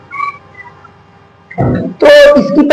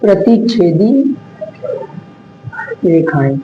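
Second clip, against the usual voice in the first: slow drill; 3 semitones lower, 6 dB quieter than usual. Shown as a demonstration. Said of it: "किसके बारे में?".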